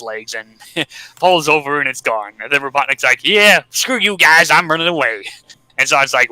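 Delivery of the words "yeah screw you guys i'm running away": mock petulance. Beaten young Robotnik to the others, mock petulance. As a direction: storm off like a lightly played sulky kid. Villain flees in a huff.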